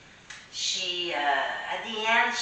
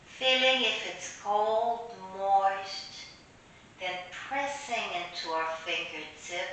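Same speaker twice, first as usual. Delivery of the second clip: unhurried meditation voice with long pauses; guided meditation; 2 semitones higher than usual. Real, not acted. Teacher leading listeners through an imaginary clay meditation, guided meditation.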